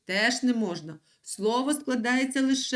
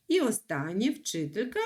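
ordinary talk, nothing marked

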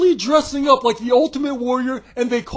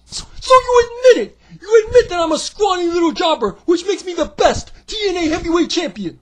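triumphant puppet shout; 6 semitones higher than usual. Acted. Puppet gloating at his critic, high triumphant shout. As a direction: crow in victory as a tiny puppet.

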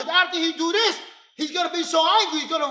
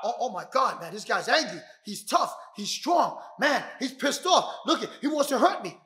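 softer, acted fretting; worried inner voice; 4 semitones lower, 6 dB quieter than usual. Defender frets to himself about an angry man, softer worried self-talk. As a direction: play a rattled person thinking to himself. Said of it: "Instead of saying to yourself".

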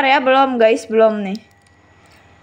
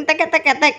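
short rapid "tek" rattle; toy gun sound. Shown as a demonstration. Host correcting child's sound, imitated rattle. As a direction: imitate the gun as a run of ticks. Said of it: "Enggak, bukan wang wing".

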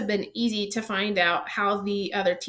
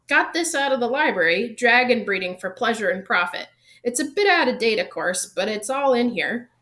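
louder, animated gamekeeper with a hint of character; mildly excited Hagrid, raised voice; lightly voiced Hagrid, eager; 4 dB louder than usual. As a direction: lightly play an enthusiast explaining his book. Voices Hagrid explaining dragon book.

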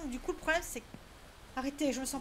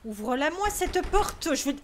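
angry demand; 5 dB louder than usual. Real, not acted. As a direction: lean on each word, exasperated. Player yelling at locked door.

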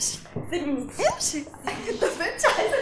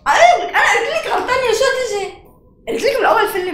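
louder, higher scolding; loud told-you-so; 5 semitones higher, 7 dB louder than usual. Acted. Rival scolding fiancée she was told to leave, louder. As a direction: scold her, voice raised. Scolding during staged fight.

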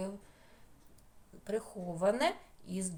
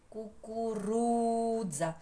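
«Кукурудза» slowly, with РУ stretched; наголос на РУ; slower than usual. Shown as a demonstration. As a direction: hold the stressed РУ in «Кукурудза». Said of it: "де стоїть наголос у нас?". (повільно, протягуючи наголошене РУ)

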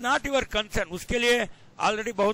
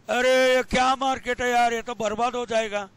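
lightly imitated grumbler, a little raised; mock complaint; 3 semitones higher, much faster than usual. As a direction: complain like a naysayer, quick and mildly exasperated. Imitates people who always talk negatively. (शिकायती लहजे की हल्की नकल)

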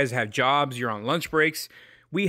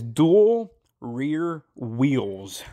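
slow and careful; much slower than usual. Shown as a demonstration. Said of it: "This is a tough one".

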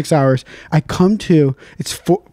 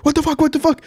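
confused; 10 semitones higher, faster than usual. Retold or imitated. Woken by knocking at 2am.

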